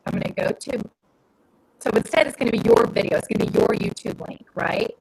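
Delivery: breaking up on a bad line; faint, cutting out over the phone; crackly cordless phone. Real, not acted. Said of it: "You're breaking up".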